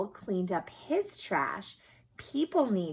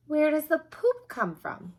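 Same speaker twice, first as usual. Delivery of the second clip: put-on a higher, louder little boy's question; voicing a curious boy; 7 semitones higher, 6 dB louder than usual. Reading to a child, voicing the curious boy Ryan. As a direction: ask it like an eager young child. Ryan voiced in read story.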